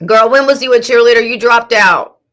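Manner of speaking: incredulous. Real, not acted. Incredulous challenge.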